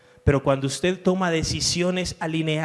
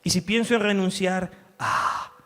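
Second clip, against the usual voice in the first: peaceful voice of God. Retold or imitated. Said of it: "La voz de Dios te dice".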